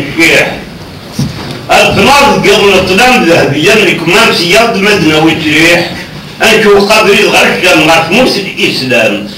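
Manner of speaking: lightly measured poem recitation; verse recitation. Acted. Guest reciting an old verse to the interviewer, recitation. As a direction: recite the verse steadily, lines falling at the end.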